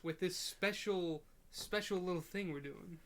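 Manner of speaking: steady formal newscaster read; news reporter voice. Pretend. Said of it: "like, news reporter voice".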